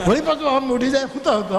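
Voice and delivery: talking through laughter; can't hold back the laugh; laughing while telling. Real, not acted. Laughs recalling the odd guest. (હસતાં હસતાં)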